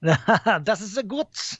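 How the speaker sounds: mock German. Puts on German after Germany mention.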